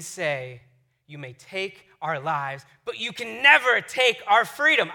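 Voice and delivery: dramatic battle speech, slow and building; rally the troops, building to a rousing close; inspiring speech. Acted. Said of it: "he gives this inspiring speech".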